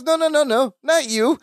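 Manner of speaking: high, agitated questioning; exasperated director. Acted. Director confronts Larry about the odd voice, exasperated. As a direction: voice jumps up high in disbelief.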